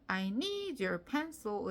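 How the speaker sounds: slow, measured exam-recording English; careful official-sounding delivery; calm, official tone. Shown as a demonstration. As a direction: read it slowly and evenly, like a listening test. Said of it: "차분한 톤으로".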